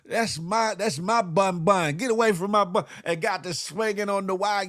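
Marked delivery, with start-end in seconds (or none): 0.1-2.9 hammed-up jealous boyfriend; mock jealous yell. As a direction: warn a rival off your girl. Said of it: "Dave said".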